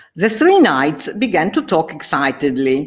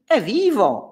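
mock scream; 9 semitones higher than usual. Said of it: "urlò".

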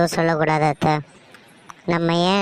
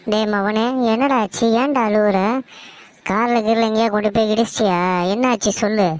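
anxious mother questioning her son; worried alarm; 3 semitones higher than usual. Acted. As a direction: press him worriedly for an answer. Mother asks crying son what happened. (பதற்றமாக விசாரித்தல்)

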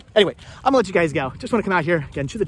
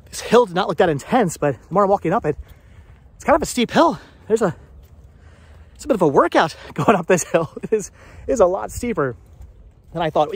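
out of breath; 3 semitones higher than usual. Real, not acted. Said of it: "now I'm winded".

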